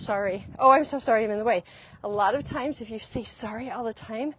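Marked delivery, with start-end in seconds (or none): 0.0-1.6 fast, louder tumble of sorries; rushed apology. Retold or imitated. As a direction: gush apologies as if in the way. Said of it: "It's not just".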